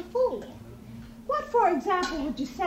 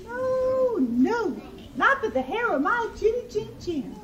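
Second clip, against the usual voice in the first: higher-pitched piglet refusal; defiant little pig; 6 semitones higher than usual. A narrator's reading. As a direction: refuse the wolf in a high piggy voice.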